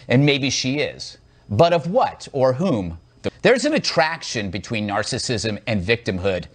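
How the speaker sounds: measured opinion-monologue read; host's prepared editorial read; scripted monologue. Real, not acted. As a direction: deliver a scripted commentary to camera. Host reads scripted monologue.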